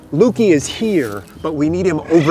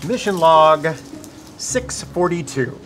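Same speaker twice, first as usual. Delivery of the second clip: mission log. Acted. Dictating a mission log, deliberate.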